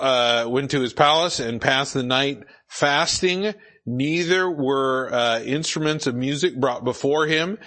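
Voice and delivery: measured reading aloud from the Bible; scripture reading. Acted. Preacher reads the king's words to Daniel, scripture reading. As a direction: read the verse out clearly to listeners.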